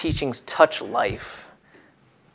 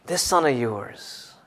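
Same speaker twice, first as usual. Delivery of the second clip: contempt slowed; 8 dB quieter, slower than usual. Shown as a demonstration. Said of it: "he just hates his brother".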